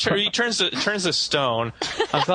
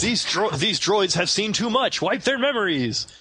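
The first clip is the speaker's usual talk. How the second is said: higher-pitched hammed-up command; mock movie order; 6 semitones higher than usual. Mocking films that erase everyone's memories, mock movie order. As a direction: issue a dramatic order, jokingly.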